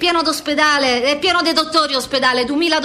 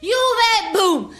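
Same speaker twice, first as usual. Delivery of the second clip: mimicking boys' game; 5 semitones higher than usual. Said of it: "cousins playing football".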